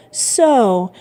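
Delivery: hint of a Marseille accent, rising high; lightly voiced Marseille greeting; strong Marseille accent. A narrator's reading. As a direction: greet with a touch of Marseille accent, pitch climbing. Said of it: "with a strong Marseille accent".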